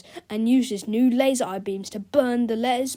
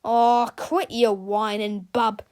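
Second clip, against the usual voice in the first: dismissive; 4 dB louder, slower than usual. Acted. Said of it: "said George".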